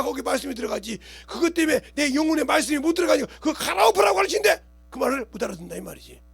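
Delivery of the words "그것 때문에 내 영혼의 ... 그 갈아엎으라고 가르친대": raised, louder preaching voice; preaching shout. Real, not acted. Preacher shouting the lesson at his congregation. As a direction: drive the point home at full voice.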